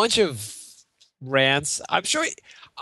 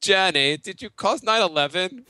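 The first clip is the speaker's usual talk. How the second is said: Forrest Gump voice; 7 semitones higher, 3 dB louder, slower than usual. Retold or imitated. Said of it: "Forrest Gump in".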